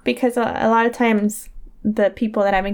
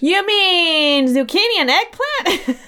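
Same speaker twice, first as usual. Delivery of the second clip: laughing mock question; 8 semitones higher, slower than usual. Joking American correction of British words.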